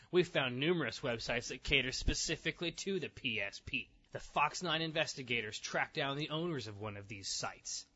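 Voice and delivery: measured TV reporter delivery; earnest newscast narration; news report read. Acted. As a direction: read it like a local news feature. Reads news article aloud.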